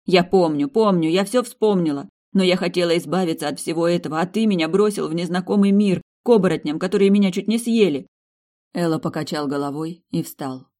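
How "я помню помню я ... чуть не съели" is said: angry outburst. Acted. Marina accuses Elo angrily.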